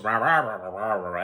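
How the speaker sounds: imitated mumbling. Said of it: "he kinda mumbles".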